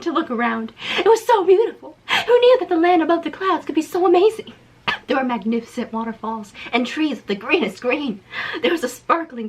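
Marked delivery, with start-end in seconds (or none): 1.0-4.5 awestruck. Acted. Hammy awe reading.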